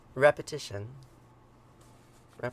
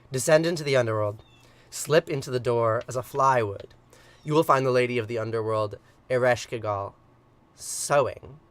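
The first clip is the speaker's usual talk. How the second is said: louder, ringing command to descend; a god sending his creatures below, a loud command; 7 dB louder than usual. Acted. Enki commands the beings.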